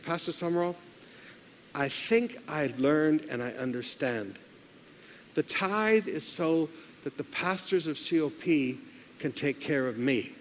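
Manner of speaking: low, soft, measured mock confession; humbled admission. Lady admitting to her pastor that she understands, humbled.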